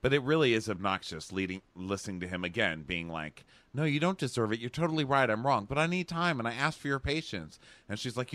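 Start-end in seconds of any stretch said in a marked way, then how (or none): 3.8-7.6 high, pleading mock sincerity; over-earnest apology in a raised voice. Dean asking her for patience, mock earnest apology. Mocking Dean's obnoxious apology.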